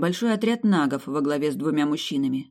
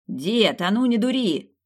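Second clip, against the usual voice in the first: higher warning shout; higher urgent cry; 6 semitones higher, slower than usual. Acted. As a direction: yell at the grandfather to stop. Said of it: "крикнул Зуб".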